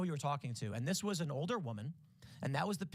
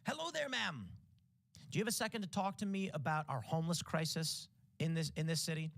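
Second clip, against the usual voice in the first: chirpy canvasser opener; 2 semitones higher than usual. Retold or imitated. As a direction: sound like a rehearsed street canvasser. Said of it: "And I say".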